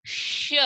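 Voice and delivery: touch the palate for a hushing "श"; isolated "श", a palatal sh sound. Shown as a demonstration. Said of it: "जीभ को ऊपर की तरफ टच".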